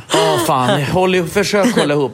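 mock pep talk. Husband bracing himself.

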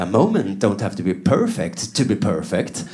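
sappy sitcom dad; mock TV moral. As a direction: deliver the cheesy lesson slowly. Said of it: "hör man dem säga".

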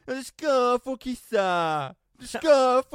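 high, loud, drawn-out yell; imitated screaming mum. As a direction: shriek like a mum across a plane. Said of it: "hans mamma står och skriker". (härmar en skrikande mamma)

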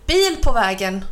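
loud alarmed warning cry; shouting warning. Acted. Crow warns the cow of a car, shouting. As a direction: call out the danger. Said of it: "ropade kråkan".

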